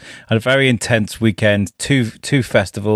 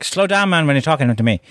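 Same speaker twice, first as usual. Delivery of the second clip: Irish local; 5 semitones higher than usual. Retold or imitated. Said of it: "And he's like".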